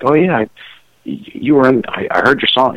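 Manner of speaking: imitating eager neighbours. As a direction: play a neighbour piping up in recognition. Neighbours recognising him, voiced in anecdote.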